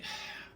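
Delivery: soft acted sigh; weary sigh. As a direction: let out a quiet breath, imitating an ailing friend. Retold friend feeling unwell.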